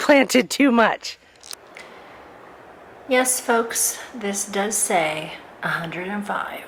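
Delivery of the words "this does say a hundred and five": whispering. Real, not acted. Showing thermometer, hushed aside.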